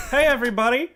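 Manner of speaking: hammed-up alien shouting a greeting; mock alien greeting. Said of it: "they come out and they go".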